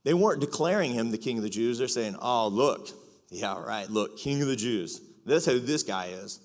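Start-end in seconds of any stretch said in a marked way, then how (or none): 2.2-6.4 sarcastic. Retold or imitated. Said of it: "It's full of sarcasm".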